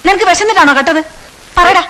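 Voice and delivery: angry teacher questioning a thief; stern interrogation. Acted. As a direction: grill the boy on why he stole.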